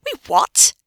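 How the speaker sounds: high, loud burst of disbelief; incredulous. Acted. Hermione hearing that the city was lost, incredulous. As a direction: throw it back in disbelief. Acted quarrel, disbelieving echo.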